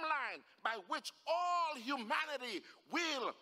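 emphatic sermon cadence, building; impassioned preaching. Real, not acted. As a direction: drive each phrase home to a congregation. Preaches with rising force.

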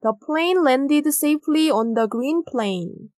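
very slow, word by word, for the class; slow dictation pace; slow model reading. Shown as a demonstration. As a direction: read each word out slowly and clearly. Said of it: "따라서 정답은 plane".

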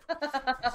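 short high burst of laughter; laughing at her own sultry bit. Real, not acted.

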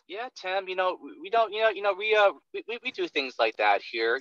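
mock a rep who trips over every word; unsure mumbling salesman. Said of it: "but I sound like".

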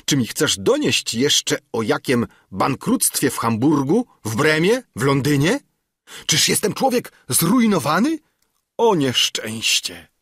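panicked councillor. Acted. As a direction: wail about bankruptcy in rising panic. Frightened councillor fears ruin.

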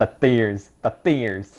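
put-on a stab at an Australian accent; attempted Australian accent. Friend trying the given sentence for a game, attempted Australian accent. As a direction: try the line in an Australian accent. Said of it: "Australian accent".

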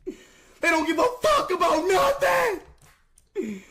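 rising angry yell, slowing on the last words; furious rant. Real, not acted. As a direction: spit out the curse in real rage. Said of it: "but I'm fucking pissed".

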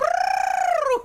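very high playful trill; high trilled noise. Pretend. Gamer performing for the camera, high trilled noise.

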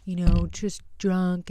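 retold make-nice pleading, lightly acted; imitated nice apology. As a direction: mimic him sweet-talking an apology. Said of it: "trying to be all nice".

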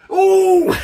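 sudden high loud gasp of surprise; surprised cry. Acted. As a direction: jolt at the late chance. Late chance bounces off keeper.

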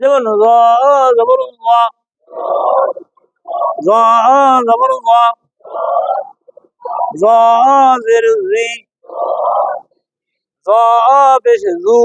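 "জ", "জি", "জু" heavy, from the tongue tip; thick tongue-tip sound. Shown as a demonstration. Teacher drills the vowel marks, thick "জ". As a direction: spell it out with a full, thick "জ". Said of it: "জিহ্বার আগা থেকে মোটা ভাবে".

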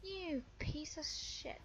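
slow, seething whisper; whispered curse. Real, not acted. Gamer cursing an escaping opponent, whispered curse. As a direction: curse slowly under your breath. Cursing the player under their breath.

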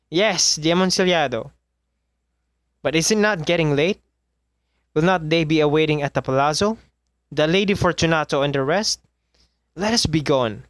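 urgent but restrained begging; Fortunato's plea. Acted. Trapped man urging his captor to leave. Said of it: "a sad voice".

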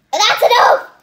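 loud, high cry of stop; that's enough. Real, not acted. Kid shouts to mom to stop pouring. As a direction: call out to halt mom. Stopping mom adding solution.

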